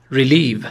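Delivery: ریلیو said as ri-LIV, second syllable stressed; ریلیو with a short first i and a long stressed LIV. Shown as a demonstration. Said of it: "استرس روی هجای دوم".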